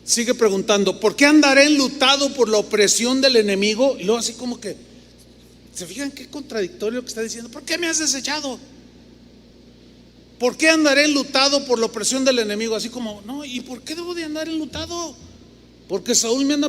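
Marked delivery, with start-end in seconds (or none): 1.0-4.0 psalmist's lament. Acted. Preacher voices the psalmist's lament. 7.5-12.8 psalmist's lament. Acted. Preacher voices the psalmist's lament.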